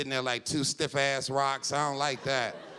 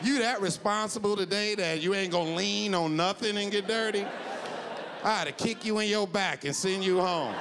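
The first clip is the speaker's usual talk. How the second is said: scolding coach; 5 semitones higher than usual. Acted. Coach scolding lazy man.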